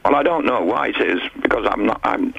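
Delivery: echoey phone line; cave echo. Real, not acted. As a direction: voice echoing like in a cave. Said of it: "your phone always has this weird echo on".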